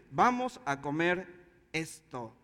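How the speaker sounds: lento, con pausa antes de «esto» y caída grave; determinación solemne. Retold or imitated. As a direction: suelta cada palabra despacio y baja en «esto». Reta a los hermanos a comer. (firme y pausado, imitando una orden)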